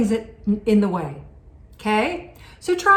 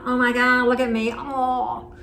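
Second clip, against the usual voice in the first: vain self-admiring; 2 semitones higher than usual. Retold or imitated.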